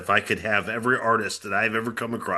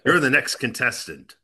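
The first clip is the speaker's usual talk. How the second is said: game show host voice. Acted. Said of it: "I have a game show host voice".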